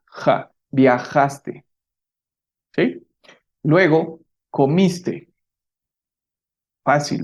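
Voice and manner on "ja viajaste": viajaste said slowly, the j a breathy ja sound; slow pronunciation demo. Shown as a demonstration. Teacher modelling viajaste for students, slow and clear. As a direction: model viajaste syllable by syllable, ja stretched. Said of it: "Esta pronunciación".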